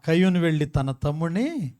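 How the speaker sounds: normal talking voice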